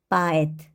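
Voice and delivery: 빠에트 with o said as a; unstressed o as a. Shown as a demonstration. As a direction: say 빠에트, stress on the e. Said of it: "강세 없는 오는 아로 발음을 한다".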